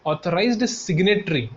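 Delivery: slow emphasis. Shown as a demonstration. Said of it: "क्या बोला मैंने?".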